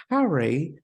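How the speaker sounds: "Harry" in a classy Englishman's accent, rising at the end; classy English accent. Shown as a demonstration. Teaching the classy Englishman accent with "Harry". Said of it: "the easiest way to talk like a, a classy Englishman".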